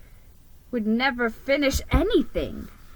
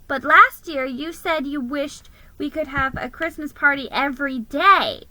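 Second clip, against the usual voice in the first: high squeaky mouse voice; lightly voiced squeaky little mouse; squeak; 5 semitones higher, 5 dB louder than usual. A narrator's reading. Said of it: "she squeaked".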